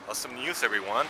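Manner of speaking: mock cheerful announcement; sarcastic fake enthusiasm. Real, not acted. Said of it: "Being sarcastic".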